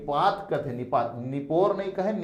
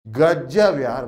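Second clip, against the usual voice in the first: slow, loud, drawn-out गजब यार; friend's admiring wow; 5 dB louder, much slower than usual. Retold or imitated. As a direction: savour गजब like a friend bragging. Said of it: "जैसे कोई आप उनके दोस्त था".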